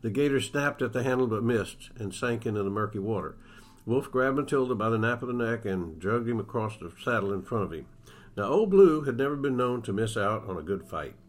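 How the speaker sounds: steady storyteller reading a Western aloud; story narration. Acted. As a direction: read it like an author sharing his book on the radio. Author reads his novel aloud.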